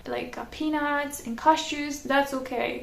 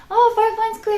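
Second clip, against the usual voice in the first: laughing reply; 9 semitones higher, 7 dB louder, faster than usual. Retold or imitated.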